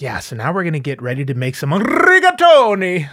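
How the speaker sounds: "rigatoni" said with a hammed-up Italian flourish; mock Italian pronunciation. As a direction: overdo the Italian vowels in "rigatoni". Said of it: "pronounces, uh, the names of the food".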